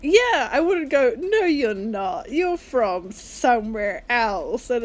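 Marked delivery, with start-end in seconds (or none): 1.1-4.7 slow, drawn-out insistence; mock contradiction. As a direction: spell it out as if correcting them. Acts out contradicting someone's stated origin.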